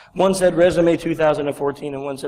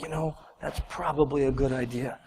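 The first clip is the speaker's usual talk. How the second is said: imitating a kindly receptionist, much softer and lower; gently reassuring; 4 semitones lower, 11 dB quieter than usual. Receptionist letting a flustered jobseeker breathe, gently reassuring. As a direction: soothe in a hushed, easy voice.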